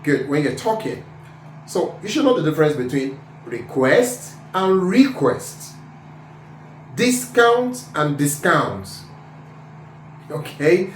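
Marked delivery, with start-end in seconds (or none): 3.5-5.8 REQUEST twice, the stressed syllable switched; contrasting word stress. Shown as a demonstration. Teacher showing word stress, REQUEST stressed two ways. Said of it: "how to stress words". 7.0-8.9 DISCOUNT slowly, stressed two different ways; contrasting word stress. Shown as a demonstration. Teacher showing word stress, DISCOUNT stressed two ways. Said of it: "how to stress words".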